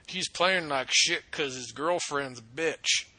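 slow, drawn-out mock of a bitter fan; mocking a sports hater. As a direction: sneer it out slowly like a know-it-all fan. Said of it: "one of those people that's like".

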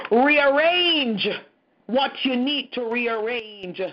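slow, with CHANGE and REARRANGE punched loud; emphatic plea. Real, not acted. Preacher commanding God to rearrange the church, slow emphatic plea. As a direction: hammer each command word, then draw out the rest.

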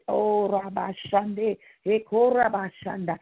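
slow, fervent glossolalia; speaking in tongues. Real, not acted. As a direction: pour out ecstatic prayer syllables. Praying in tongues mid-prayer.

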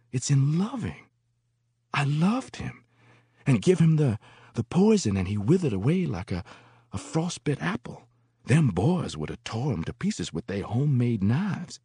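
put-on high, halting, mournful old woman's voice; old singer of spirituals. A narrator's reading. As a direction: moan out a painful confession.

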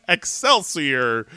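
slow, drawn-out catchphrase; Stan Lee. Acted. Host imitates comic creator's catchphrase, slow proclamation. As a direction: stretch it out as a mock proclamation. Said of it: "Stan Lee says".

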